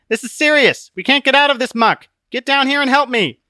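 high, loud, exasperated plea; urgent demand. Acted. Christian stuck in the muck to Book, urgent. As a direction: push the pitch up and demand help.

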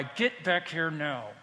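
slow, weighty mock command; understated divine summons; imagined stern cry. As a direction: order them back, drawing out each word. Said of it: "God is gonna cry".

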